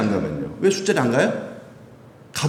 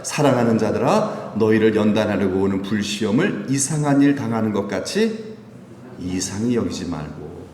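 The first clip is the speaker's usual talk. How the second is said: scripture reading; 4 semitones lower than usual. Real, not acted. Pastor reads Peter's letter aloud, measured recitation. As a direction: lead the group evenly through the verse.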